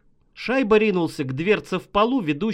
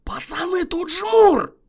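much higher, loud cry; shout of alarm; 13 semitones higher, 6 dB louder than usual. Acted. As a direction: yell it from the other room. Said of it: "услышали его крик".

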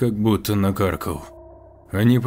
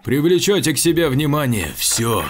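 radio shout; 5 semitones higher, 3 dB louder than usual. Acted. Shouting over radio to group.

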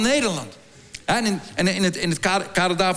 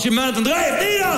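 higher-pitched mock Brabant accent; 4 semitones higher than usual. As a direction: say the French motto as if it were Brabants. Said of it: "Het klinkt Brabants".

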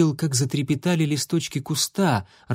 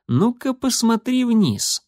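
much higher, slow teasing; playful tease; 10 semitones higher, slower than usual. Acted. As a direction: coax her to look down. Proud brother showing son.

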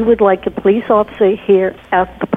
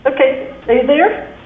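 echoing tunnel; 4 semitones higher than usual. Real, not acted. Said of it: "it sounds like you're in a tunnel".

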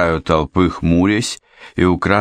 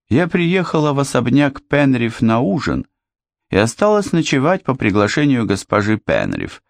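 put-on lightly raised young lady voice; a hint of a young woman, eager; 4 semitones higher than usual. Anne voiced by narrator.

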